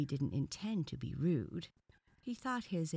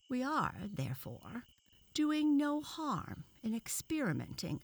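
lightly voiced, higher-pitched lecturer; lecturing professor; 4 semitones higher than usual. Professor presents a specimen to onlookers, lecturing. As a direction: deliver it as a scientific pronouncement.

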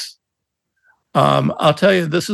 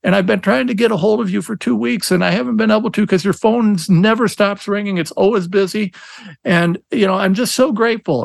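imitating a pleading mother, a bit higher; mock tearful plea, pitched up a little; tearful mom; 4 semitones higher than usual. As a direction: lightly voice a desperate, grateful mom in tears. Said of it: "She's in tears".

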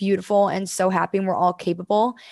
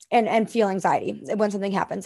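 ordinary talk, nothing marked

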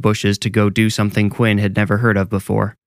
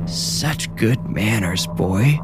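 put-on ancient, sick old woman; much slower than usual. Old woman mocks the polite boy, slow sickly crone. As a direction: draw it out like a sickly old hag. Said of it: "She sounded ancient and sick".

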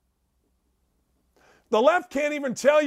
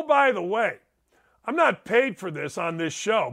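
usual speaking voice

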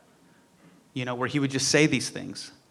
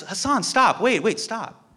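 Norman's interruption; 7 semitones higher than usual. Retold or imitated. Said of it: "And he goes".

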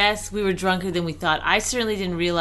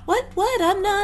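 playful protest; 14 semitones higher than usual. Real, not acted.

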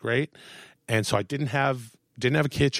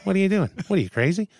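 higher-pitched, exasperated doctor; doctor impersonation; 7 semitones higher, faster than usual. Retold or imitated. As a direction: imitate your doctor scolding you in disbelief. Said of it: "that's exactly what he sounds like".

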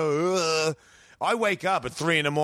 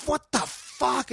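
groggy surprise; 9 semitones higher, much slower than usual. Retold or imitated. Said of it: "and I'm like".

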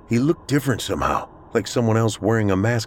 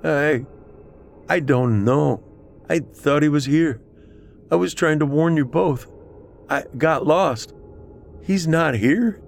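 higher, halting confusion; bewildered and apologetic, pitched up; distressed man; 6 semitones higher than usual. A narrator's reading. Wounded Pat telling Celeste he got lost, distressed.

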